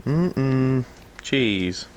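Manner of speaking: slow, stilted robot voice. Pretend. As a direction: speak each word like a machine. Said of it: "in a robot voice".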